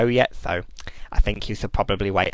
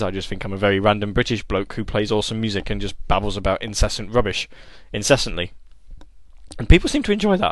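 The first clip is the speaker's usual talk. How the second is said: put-on voice. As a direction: hold a silly put-on voice. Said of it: "I can't keep doing this voice for much longer".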